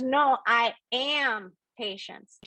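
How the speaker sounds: slow, emphatic NO, I AM Patience; insistent correction. Retold or imitated. Patience correcting a confused listener, slow and insistent. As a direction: draw out "I am" to insist.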